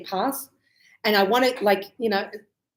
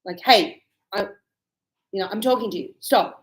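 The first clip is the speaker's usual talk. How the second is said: 1 rude call; 2 semitones lower than usual. Shown as a demonstration. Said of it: "calling at the attention".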